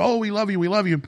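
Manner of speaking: shop owners' voice. Retold or imitated. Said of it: "And they go".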